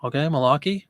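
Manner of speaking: Malarkey said as a demo word, ending on a rise; saying Malarkey on request. Shown as a demonstration. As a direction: pronounce Malarkey for the viewer to hear the vowels. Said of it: "say Malarkey".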